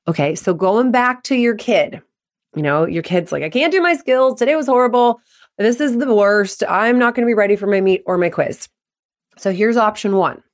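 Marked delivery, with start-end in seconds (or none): 3.4-8.7 higher-pitched, mildly whiny complaint; upset kid venting. Acted. Kid venting to parent about skills and quiz, upset. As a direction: pile up the woes like a stressed kid.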